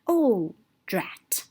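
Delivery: breathy dismayed whisper; whispered drat. Acted. Toad whispering his dismay after the walk. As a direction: sigh it out under your breath.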